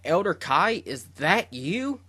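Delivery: high, stunned question, slowing at the end; shocked disbelief. Retold or imitated. Shin stunned to see the Elder Kai, disbelieving. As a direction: ask it as if seeing a ghost. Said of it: "He is completely shocked".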